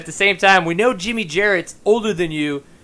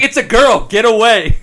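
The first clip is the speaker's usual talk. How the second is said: laughing mock friend; 5 semitones higher, 9 dB louder than usual. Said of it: "It's like".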